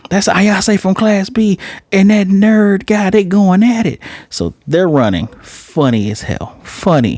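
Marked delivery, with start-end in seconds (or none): 0.1-4.0 higher, squeaky teasing gossip; gossiping classmate voice. Retold or imitated. A reviewer voicing a nosy classmate, high squeaky gossip. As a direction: blurt it like a nosy kid spreading news. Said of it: "they start running".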